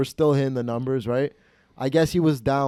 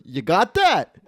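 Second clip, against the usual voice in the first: lightly raised, eager challenge; high, excited check-in; mock gambler's crowing; 5 semitones higher, slower than usual. Gambler to betting buddy after a win, excited imitation.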